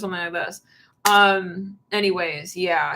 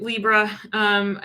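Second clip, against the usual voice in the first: normal talking voice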